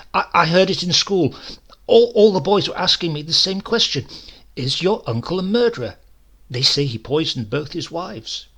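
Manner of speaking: put-on a small boy tripping over his words in his hurry to explain; flustered young boy. A narrator's reading. Boy telling his grandmother what the school boys asked, high and flustered.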